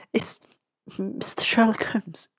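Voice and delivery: whispered through sobs, slow; asking shakily between sobs; tearful whisper at the door. A narrator's reading. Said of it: "I inquired between sobs".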